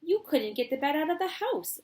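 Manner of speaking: a hint of old grandpa; high-pitched old man, half-done; lightly voiced grandpa. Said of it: "I didn't do my Grandpa Joe voice".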